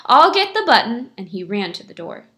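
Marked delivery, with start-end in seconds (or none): 0.1-1.1 loud, high and eager; excited cry. A narrator's reading. Shamus running for the button, excited cry. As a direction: call it out eagerly. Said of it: "he cried".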